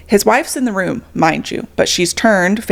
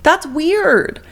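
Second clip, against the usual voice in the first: incredulous scolding; 6 semitones higher than usual. Retold or imitated. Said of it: "I'm like".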